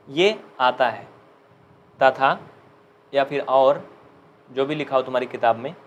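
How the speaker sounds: normal talking voice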